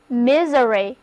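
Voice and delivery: misery with the S said as a Z, MI-ze-ry; a clear teacher model of misery; model pronunciation. Shown as a demonstration. Teacher modelling misery for students, S sounded as Z. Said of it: "Read after me".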